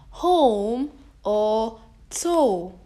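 home or toe whispered very slowly; teacher whispering the words slowly. Shown as a demonstration. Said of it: "as in home".

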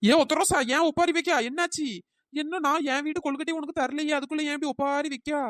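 high-pitched, puzzled fussing; startled questioning. Acted. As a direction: demand to know why she is wailing. Startled questioning of the wailing neighbour. (திகைப்புடன் உயர்ந்த குரலில் கேட்பது)

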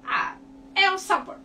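Ah, é o sabor said as a happy eureka; relieved realization. Real, not acted. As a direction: found the right word at last. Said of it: "então não é entonação".

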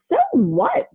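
high, defiant retort. Acted. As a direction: shrug it off.

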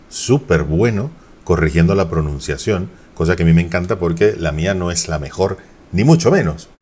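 normal talking voice

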